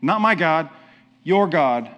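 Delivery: "your" picked out firmly against "my", after a pause; stress on YOUR. Shown as a demonstration. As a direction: punch YOUR to contrast it with "my". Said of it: "pay attention to how he says this next part".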